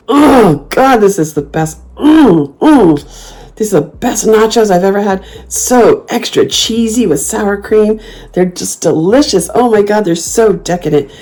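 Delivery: loud, high, moaning delight; loud food rapture. Pretend. Showing off nachos to staring diners, loudly. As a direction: savor every bite out loud. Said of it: "I get really loud".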